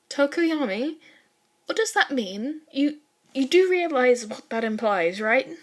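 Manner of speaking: a classmate suddenly unsettled by the answer; alarmed young woman. Acted. Yao Momo alarmed.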